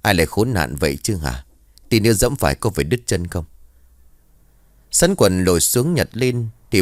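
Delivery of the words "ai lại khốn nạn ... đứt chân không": mild acted grumble; grumbling. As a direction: grumble to yourself, a touch annoyed. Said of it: "miệng của ông càu nhàu". (càu nhàu nhẹ, hơi bực)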